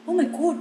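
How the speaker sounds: "Oh my God" high, with a round British O; a mock-posh "Oh my God" with a rounded O; British pronunciation of "Oh" in "Oh my God". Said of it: "Pakai O".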